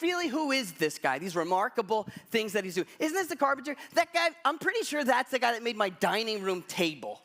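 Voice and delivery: high, dismissive scoff at the carpenter. Retold or imitated. Hometown crowd scoffs at Jesus, mocking and high. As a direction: sneer at the hometown boy.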